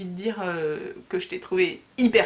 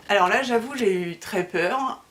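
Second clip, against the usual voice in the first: laughing. Real, not acted. Admitting her fright to viewers, with a laugh.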